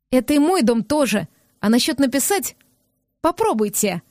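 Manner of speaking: a touch of fury, daring him; furious. Acted. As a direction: she dares him to try, mildly voiced. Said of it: "Яростно сверкнула она глазищами". (с лёгкой яростью)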